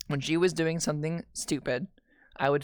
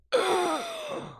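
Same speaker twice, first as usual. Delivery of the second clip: long, high intake of breath; sharp squeaky gasp, held long; high drawn-out gasp. Real, not acted. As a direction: gasp in horror at a memory. Own reaction to frightening memory.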